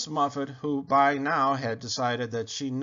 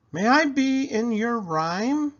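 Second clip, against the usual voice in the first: Muffet's request; 11 semitones higher, 6 dB louder than usual. Acted. Muffet asks mouse.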